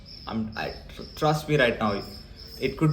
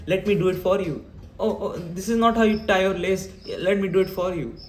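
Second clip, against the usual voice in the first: high, fussy doting parent voice, much higher; mocking overprotective parent; 8 semitones higher than usual. Mocking a parent who won't let the child try anything, high and fussing. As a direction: coo like a smothering mum doing everything for the kid. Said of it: "parents are obsessively focusing on risk aversion".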